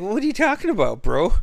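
high, puzzled mock question; retold confusion. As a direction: sound baffled and high.

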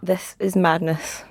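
whispered disbelief. Real, not acted. Guest reacts in disbelief.

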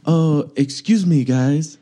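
light mock French accent, drawn out; fake French accent. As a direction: politely interrupt in a slightly fake French accent. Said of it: "it was like my French accent now".

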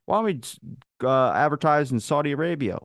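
high eager pitch voice. Retold or imitated. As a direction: pitch it up like a keen intern. Imagined sales meeting.

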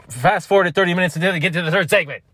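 high, loud instruction over others. Retold or imitated. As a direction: talk over people to finish the sentence. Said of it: "I'd be like".

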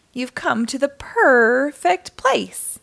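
slow, welcoming shopkeeper; lightly voiced store clerk.

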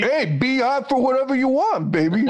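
put-on New York Italian tough-guy accent. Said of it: "accent in the entire".

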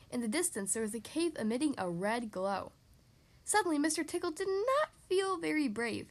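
measured, lively storybook reading; story narration. A narrator's reading. Reading a picture book to children, lively story narration. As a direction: read it out clearly to young listeners.

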